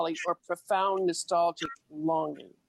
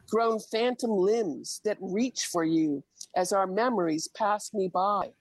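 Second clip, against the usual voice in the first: poem recitation. Acted. Recites her poem Saudade.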